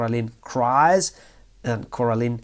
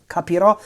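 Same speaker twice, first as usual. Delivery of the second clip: Capirò with the weight landing on the final rò, a bit higher and louder; stress on the last syllable; 4 semitones higher, 3 dB louder, faster than usual. Shown as a demonstration. Teacher showing where the future tense takes its stress, accent on the last syllable. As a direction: lean into the end of Capirò, rising. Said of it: "with the accent on the last syllable".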